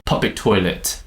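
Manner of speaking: "public toilet" with the weight on "public"; stressed "public", unstressed "toilet". Shown as a demonstration. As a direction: hit "public", let "toilet" fall away. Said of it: "The focus is on public".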